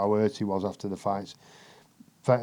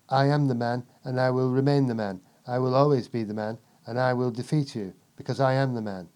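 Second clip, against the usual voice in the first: imitating Chris Eubank. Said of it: "he's fucking talking to me like that".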